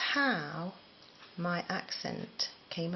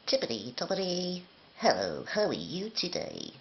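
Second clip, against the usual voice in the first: Fimbles frog; 3 dB louder than usual. Acted. Doing a kids' TV frog for the children, cartoon frog voice. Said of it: "the frog from Fimbles".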